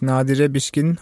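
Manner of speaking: Nadire Bişkin said the Turkish way; correct Turkish pronunciation. Shown as a demonstration. Co-host welcoming the guest, Turkish pronunciation of Nadire Bişkin. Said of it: "den Namen auch nochmal richtig aussprechen".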